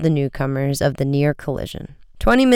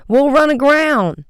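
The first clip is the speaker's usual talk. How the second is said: panicky cry; 10 semitones higher, 5 dB louder than usual. A narrator's reading. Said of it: "Chet cried".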